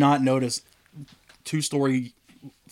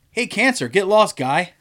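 higher, chummy Canadian voice; mock Canadian slogan; 4 semitones higher, slower than usual. Guy's wristband slogan, hammed-up cheery Canadian. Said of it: "rubber wristband that says".

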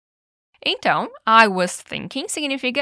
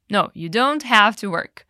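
slow full version. Shown as a demonstration. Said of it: "Senão, imagina, ficaria assim".

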